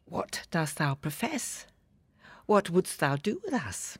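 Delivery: feed the line like a scene partner; a hint of stage delivery; recited verse. Cues Shakespeare in reply.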